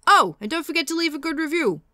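lightly voiced, slow villain read; a hint of a menacing horror villain, slowly; bad Freddy Krueger voice. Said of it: "that was a terrible Freddy impression".

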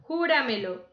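Júramelo, falling away after JÚ; stress on the first syllable. Shown as a demonstration. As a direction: punch the JÚ at the start of Júramelo. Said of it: "sobre esdrújula".

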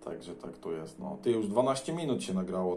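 ordinary talk

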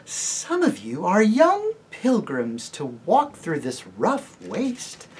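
slow, sweet lady voice with trilled R's; lady greeting pilgrims, sweetly trilled; sweet trilling lady. Acted. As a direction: charm them, rolling the R's. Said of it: "trilling her R's delightfully".

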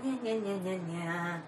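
quiet trailing nya-nya noises; low mumbled gibberish after a flub; nya-nya babble. Real, not acted. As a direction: babble it softly, sinking away. Spelt mocking noise after flubbed line.

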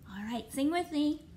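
normal talking voice

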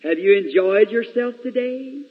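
lightly voiced loving father tucking children in; gentle papa saying good night; loving father's voice. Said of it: "I can hear the loving voice of a father say".

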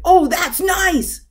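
high, loud little frog exclamation; loud frog shout. A narrator's reading. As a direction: belt it out high as the big-mouthed frog. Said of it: "The frog shouted".

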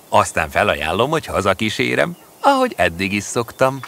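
a lightly voiced Ludovic plotting to himself, unhurried; Ludovic's scheming aside. Ludovic waits for Teodóra.

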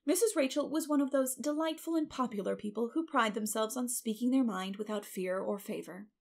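usual speaking voice

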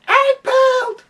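high shouted hype; excited shout. Acted. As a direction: yell the title like a hype man. Shouted title announcement.

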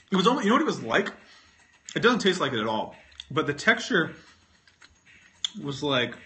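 talking through a chewy mouthful; mouth full. Real, not acted. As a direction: say it around a lump of candy. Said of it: "talking with this in my mouth".

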